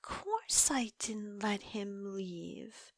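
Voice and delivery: slow, hushed confession whispered close. Acted. Captive lover whispers her confession to the detective. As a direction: breathe it out like a secret.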